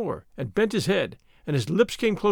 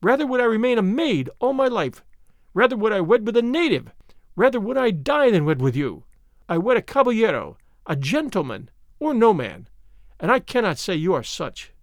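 scornful defiance; 4 semitones higher, 3 dB louder than usual. Acted. Señorita scorning the captain.

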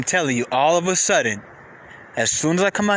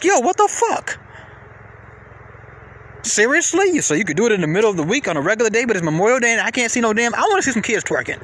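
mock outraged rant. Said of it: "Now, how do I sound? Crazy, right?".

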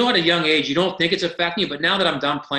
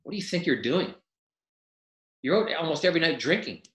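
mild mock scolding, pitched higher; steaming coach; 4 semitones higher than usual. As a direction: retell a coach's stern telling-off. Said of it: "he's just steaming".

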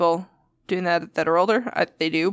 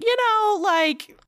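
uneasy reasoning; 13 semitones higher, much slower than usual. Retold or imitated. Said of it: "'cause he's like".

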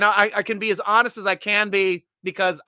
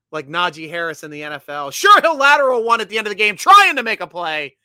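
punchy, louder ad-read delivery; sponsor ad read; 6 dB louder than usual. Acted. Host plugging the sponsor to viewers, punchy ad read. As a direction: hit the key words like a pitchman.

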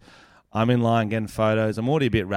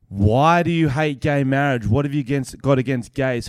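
mock accusing. Woman confronts comedian over gay marriage, mock accusing.

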